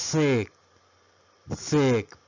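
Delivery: Z said as "zed"; name Z the British way, "zed"; British letter Z. Shown as a demonstration. Teacher demonstrating English from England, letter Z said "zed". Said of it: "en el inglés de Inglaterra se pronuncia".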